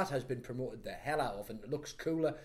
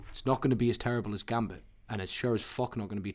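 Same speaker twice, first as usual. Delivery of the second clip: right up on the microphone; closer to the mic; 4 semitones lower than usual. Shown as a demonstration. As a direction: lean in and say it into the mic. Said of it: "Say it a bit closer".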